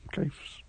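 "Gifs" with a long i, like "jifes"; long-vowel pronunciation. Shown as a demonstration. Last joking option for partner, long-vowel "Gifs". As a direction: say "Gifs" softly, rhyming with knifes. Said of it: "No one knows how to pronounce it".

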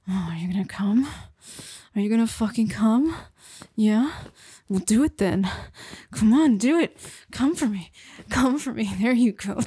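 insistent urging, rising in pitch; urgent coaxing. Acted. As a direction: urge them on with mounting intensity. Partner urged on at scene's climax.

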